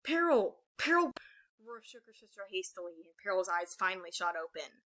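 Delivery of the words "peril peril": high, loud call of a name; urgent calling. A narrator's reading. Aurora waking her sleeping sister, calling urgently. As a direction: call out sharply to wake someone.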